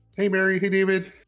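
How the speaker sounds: very high, loud, perky, chipper halfling woman voice. Narrating a game scene, voicing a visitor knocking at the door: chipper female halfling voice. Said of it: "female halfling voice".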